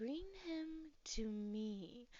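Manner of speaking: woman's faint half-whisper with me drawn out. A storyteller voices a familiar woman's half-whisper heard through the wind, half-whisper through the wind. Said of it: "you're gonna hear a whisper kind of through the wind".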